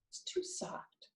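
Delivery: breathy whispered demo. Shown as a demonstration. Teacher demonstrating a soft voice, whispered. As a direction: whisper it to show softness. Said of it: "A whispering voice would not be a bellow".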